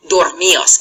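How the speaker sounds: "dormios" slowly as dor-MI-os, no d; "dormios" in three syllables, weight on mi; D dropped, accented I. Shown as a demonstration. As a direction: stress the i in "dormios", kept apart from the o. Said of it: "get rid of that".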